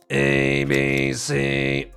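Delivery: low buzzing letters; buzzer sound. Shown as a demonstration. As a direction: say the letters with a buzz. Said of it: "try saying A, B, C with that buzzer sound".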